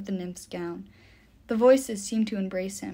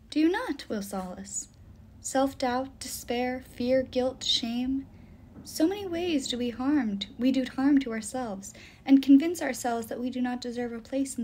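slightly lifted voice of a mournful nymph; earnest, sorrowful nymph; 4 semitones higher than usual. Acted. The nymph explains lonely souls to Will, earnest and sorrowful. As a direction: plead gently for the lonely souls.

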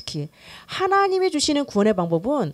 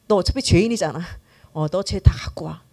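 gentle acceptance; 5 semitones lower than usual. Acted. Jesus telling a sinner to bring it all, gentle. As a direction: accept them without scolding. Jesus's answer to religion's command.

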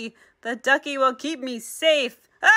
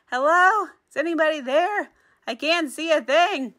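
high, helpless calling out; lost and calling; 5 semitones higher than usual. Acted. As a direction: grope around calling for anyone. Blind character calling out.

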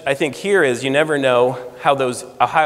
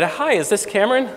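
imitating Rick Steves; 7 semitones higher than usual. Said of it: "a very familiar voice said".

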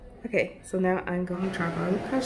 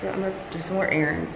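muffled, a bit faster; through fencing mask; 4 dB quieter, faster than usual. Real, not acted. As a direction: speak through a face mask. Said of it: "I hope you can hear me in my mask".

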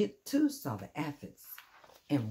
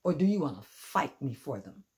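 grouchy challenge; 6 dB louder than usual. Acted. Grouchy ladybug challenges friendly one.

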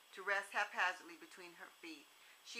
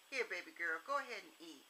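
gentle. Acted. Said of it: "how totally different he sounded to the little girl".

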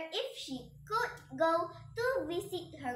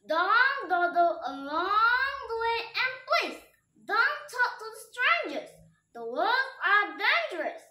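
higher, earnest motherly caution; mother warning; 6 semitones higher, 4 dB louder than usual. A narrator's reading. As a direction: warn the child to be careful. Mother warns daughter.

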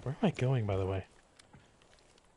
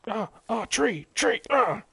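loud, higher panicked yelps; alarmed yelping; 9 semitones higher, 6 dB louder than usual. Real, not acted. Player startled by a tree in the game, alarmed yelps. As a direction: yelp a warning to yourself.

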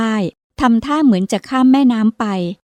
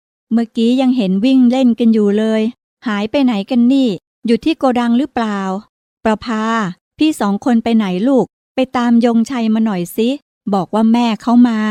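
calling. Acted. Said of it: "ร้องเรียก".

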